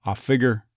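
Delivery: "I figure" as "ah FIG-er"; halved diphthong. Shown as a demonstration. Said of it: "dropping the second half of the I diphthong".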